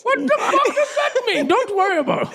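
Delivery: put-on high Santa with an Indian accent. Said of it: "Why does he sound Indian".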